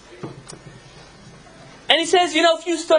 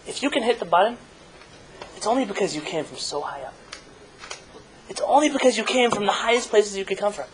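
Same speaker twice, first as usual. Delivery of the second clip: a touch of sage's teaching. Acted. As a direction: let the wisdom sink in gently. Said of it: "And the Rebbe Rayatz says".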